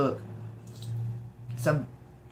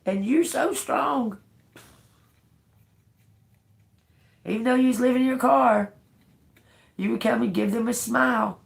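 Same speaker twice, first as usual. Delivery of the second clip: emotional tearing up; 6 semitones higher than usual. Real, not acted. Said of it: "it's making me emotional".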